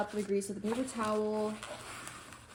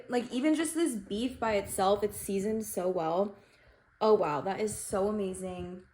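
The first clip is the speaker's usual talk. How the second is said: talking with a mouthful; chewing while talking. Real, not acted. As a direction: speak through chewing food. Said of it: "Sorry for the chewing".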